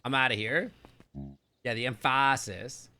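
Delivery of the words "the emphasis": emphasis with the weight on the middle syllable, em-FA-sis; misplaced stress. Shown as a demonstration. Streamer joking about wrong syllables, emphasis stressed em-FA-sis. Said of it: "Do I have the emphasis on the wrong syllable?".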